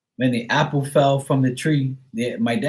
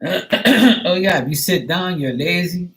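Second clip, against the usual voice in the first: high, loud mock of an old-timer's scolding; hammed-up preachy elder; 6 semitones higher, 4 dB louder, slower than usual. Son mocks the older generation's work ethic, high loud mock scolding.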